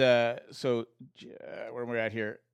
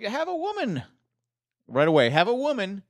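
mocking; 7 semitones higher, 6 dB louder than usual. Mocking Durant's attitude.

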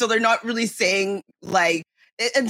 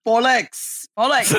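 Cockney accent; slower than usual. Shown as a demonstration. Guest correcting the host's word, Cockney accent. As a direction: model Cockney slang. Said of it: "a little bit more Cockney".

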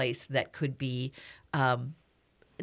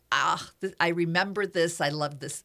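louder, delighted reminiscing; imitating delight; 4 dB louder than usual. Joyful audience member recognizing the music, mock gushing. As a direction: gush like a fan hearing a favorite song. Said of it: "some people open up and go".

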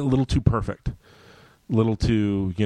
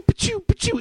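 high, sputtering, lost for words; much higher, flustered but you; mock flustered stammer; 3 dB louder than usual. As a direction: splutter like you've got no comeback. Stammering reply to the quote.

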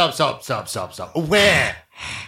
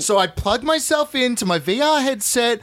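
put-on ten-year-old boy voice; 3 semitones higher than usual.

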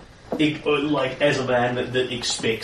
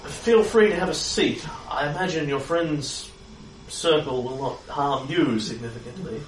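polite devil; 3 semitones higher than usual. Acted. Devil in character.

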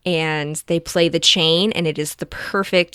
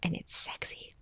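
breathy hush; 17 dB quieter than usual. Real, not acted. Describing the actor fondly.

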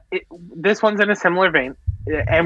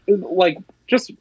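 lightly put-on sweet voice to his wife, a bit higher; a playful hint of tenderness; mock sweet; 4 semitones higher than usual. Shown as a demonstration. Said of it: "Watch, watch".

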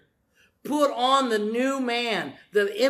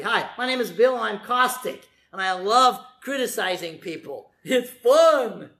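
put-on caustic old self; 3 dB louder than usual. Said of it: "that was before".

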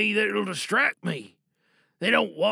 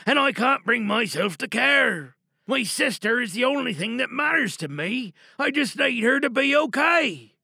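put-on a teen pleading for her sister, worn down and lost; desperate teenager; 3 semitones higher than usual. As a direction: play a student begging for help, then drowning in despair. Performed teen monologue, pleading.

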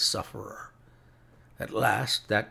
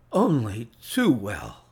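sick man; 7 dB louder than usual. A narrator's reading. Sick Holmes answers weakly.

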